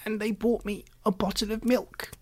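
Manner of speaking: put-on high, indignant old man's whine; shrill protest. A narrator's reading. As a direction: let the old voice rise in protest. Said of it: "his voice rose to a shrill note of protest".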